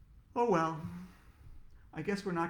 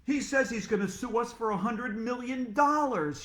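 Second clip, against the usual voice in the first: alarmed shout; 7 semitones higher, 5 dB louder than usual. Acted. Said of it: "shouted Mister Klutz".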